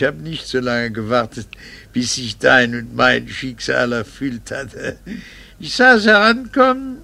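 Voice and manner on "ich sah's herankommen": bitter outburst. Acted. Husband's bitter confession.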